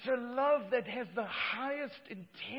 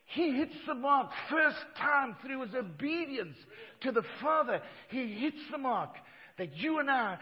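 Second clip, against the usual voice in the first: shouted preaching; 4 semitones higher, 5 dB louder than usual. Acted. Preaching burst.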